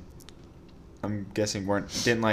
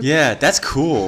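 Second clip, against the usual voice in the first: slow drawn out; 4 dB louder, much slower than usual. Real, not acted. Impressed, drawn out.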